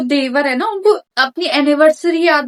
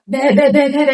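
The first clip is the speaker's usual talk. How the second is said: mock shouting noise; 3 dB louder than usual. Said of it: "चिल्लाते भी तो इतने जोर जोर से हो".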